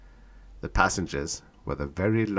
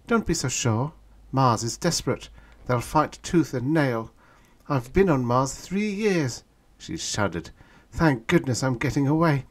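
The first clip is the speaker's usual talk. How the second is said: higher, louder earnest woman; girl's grave warning; 7 semitones higher, 3 dB louder than usual. A narrator's reading. Girl warning the young man about Mars, earnest. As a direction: warn him seriously.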